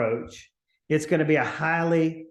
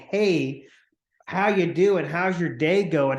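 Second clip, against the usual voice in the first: energetic, enthusiastic; slower than usual. Shown as a demonstration. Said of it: "with a great deal of energy and enthusiasm".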